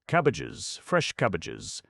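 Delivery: high street-vendor cry, drawn out; hawker's call. Acted. Vegetable man calling his wares down the lane, loud hawker cry. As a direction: sing out the wares like a peddler. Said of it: "at the top of his vegetable voice".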